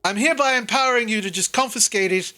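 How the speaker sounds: a hint of Sildar giving orders, flustered. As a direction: ramble it like a fussy adult caught off guard. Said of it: "and Sildar just like".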